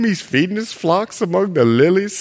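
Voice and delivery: dreamy, adoring gush; mock lovesick swoon; swooning bride. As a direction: sigh it out lovestruck. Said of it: "I just love you".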